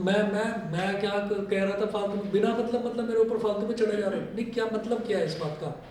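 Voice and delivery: mock indignant student, stumbling over words; reactive student. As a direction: protest hastily, as if unfairly picked on. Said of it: "जो reactive बच्चा है". (चिढ़े छात्र जैसा बनावटी विरोध)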